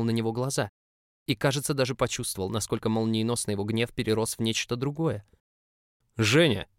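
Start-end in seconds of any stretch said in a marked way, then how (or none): 6.2-6.7 rasping, loud cry of the name; hoarse rasp. A narrator's reading. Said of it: "знакомый невозможный хрип".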